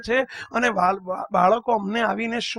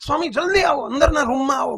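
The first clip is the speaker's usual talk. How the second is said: put-on urgent child; 4 semitones higher, 3 dB louder than usual. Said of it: "મને એકદમ ઉગ્ર થઈને કહે છે".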